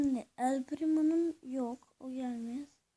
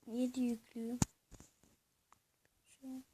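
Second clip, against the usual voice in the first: whisper; 4 dB quieter, much faster than usual. Real, not acted. In-game murmur.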